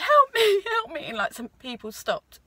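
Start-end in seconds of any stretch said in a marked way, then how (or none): 0.0-1.0 retold cry for help. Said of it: "I started saying".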